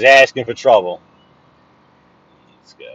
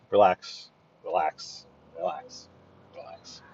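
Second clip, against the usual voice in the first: fading self-calming; 4 semitones lower, 10 dB quieter, slower than usual. Real, not acted. Calming himself in traffic.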